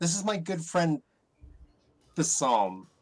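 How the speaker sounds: heavily mocking, dripping with sarcasm. Introducing another character as a good friend: super sarcastic. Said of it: "super sarcastic about that".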